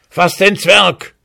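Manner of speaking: high sharp command; shout. A narrator's reading. Hussar orders his horse to seize the dwarf, shouting. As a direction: yell at the horse to grab him. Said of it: "schrie der Husar".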